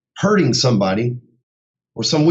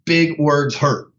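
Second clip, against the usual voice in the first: slow emphasis; much slower than usual. Real, not acted. Repeats his point slowly for emphasis.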